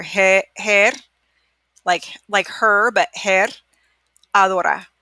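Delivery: refrigeradora split into re, fri, he, ra, adora; broken into syllables. Shown as a demonstration. Teacher slowing a hard word for students, syllable by syllable. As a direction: say it piece by piece slowly. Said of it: "So let's slow it down".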